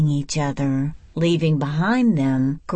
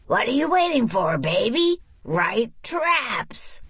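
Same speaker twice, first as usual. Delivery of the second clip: put-on higher, fast, bossy older sister pressing; stern sister pushing Baby to write; impatient Eugenia; 7 semitones higher than usual. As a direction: hurry her along, then hiss the last words.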